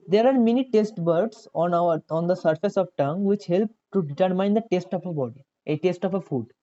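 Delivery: careful classroom reading pace; slow textbook reading. Acted. Tutor reading the book to the kids, slow and deliberate. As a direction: read the English line out slowly, word by word, like from a book. Reads textbook English aloud.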